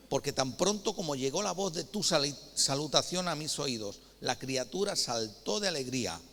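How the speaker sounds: loud, solemn Bible reading; reading the Bible aloud, declaiming; scripture reading. Acted. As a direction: proclaim the passage to the congregation.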